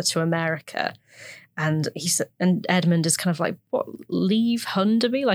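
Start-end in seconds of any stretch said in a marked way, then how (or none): 3.7-5.2 higher-pitched, lightly acted incredulous question; mild disbelief. Naive Edmund answering Joseph's plan to run away, mildly incredulous. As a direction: play mild bafflement at the very idea.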